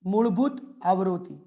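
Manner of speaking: મૂળભૂત આવૃત્તિ said slowly, stress on મૂળભૂત; dictating a new term slowly. Shown as a demonstration. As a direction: spell out મૂળભૂત આવૃત્તિ deliberately for students. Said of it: "મૂળભૂત કહેશું".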